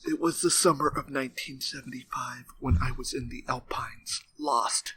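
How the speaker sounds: hushed unvoiced whisper. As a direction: whisper it like a dark tale. Dutch monologue parody.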